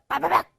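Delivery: spoken pot-smashing crackle; rapid-fire syllables like pottery breaking; imitated shattering. Teacher mimicking a smashed pot, imitated shattering noise. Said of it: "이렇게 깨지겠지".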